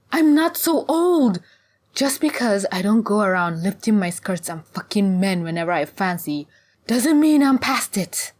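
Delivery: loud, high protest; indignant retort. Acted. Ziba objects to being called old, indignant. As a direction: protest it hotly, pitch jumping up.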